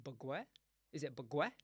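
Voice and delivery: BAGUETTE said as "buh-gweh", rising; questioning "buh-gweh" for BAGUETTE; trying out pronunciation. Shown as a demonstration. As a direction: ask BAGUETTE with a gw and no final t. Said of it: "how are you meant to say it".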